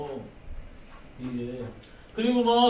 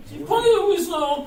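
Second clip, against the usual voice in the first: emphatic call; 8 semitones higher, 8 dB louder than usual. Real, not acted. Emphatic point in sermon.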